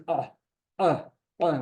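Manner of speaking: "uh" squeezed from the throat; short guttural "uh", repeated as a demo; throaty ayin sound. Shown as a demonstration. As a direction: demonstrate a throaty Hebrew ayin on "uh". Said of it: "The way it sounds is".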